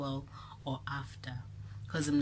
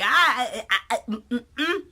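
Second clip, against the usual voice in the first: high, loud whimpering mock sob; mock crying; 9 semitones higher, 13 dB louder than usual. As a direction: whimper like the crying boyfriend, hammed up. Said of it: "And I'm like".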